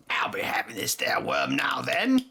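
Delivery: a hammed-up fake British accent, hushed; mock British scavenger line, half-whispered. Retelling Karen's skit line in a fake British accent. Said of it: "The fake British accent".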